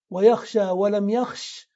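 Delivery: يخشى with long final "aa", then يخش with it dropped; weak-letter deletion. Shown as a demonstration. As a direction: slowly contrast long يخشى with shortened يخش. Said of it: "لأنها حذف حرف العلة".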